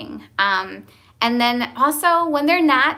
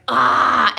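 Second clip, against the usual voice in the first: shocked cry; 3 semitones higher, 8 dB louder than usual. Retold or imitated. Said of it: "I was like".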